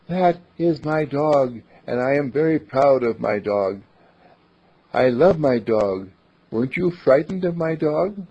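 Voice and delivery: a hint of a proud little fairy. Fairy from the bushes speaking to Charlie, lightly voiced. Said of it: "came a voice of a fairy".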